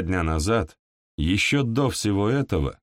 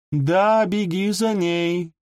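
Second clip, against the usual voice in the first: exclaiming; 10 semitones higher, slower than usual. A narrator's reading. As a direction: fling it at him bitterly. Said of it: "воскликнула Бонита Синклер".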